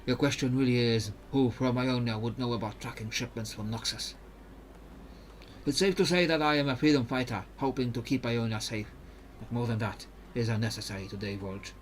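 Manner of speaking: put-on careful, even-toned Ionian accent; Mirim, Ionian accent. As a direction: explain the mission in a measured Ionian accent. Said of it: "when I'm doing an accent".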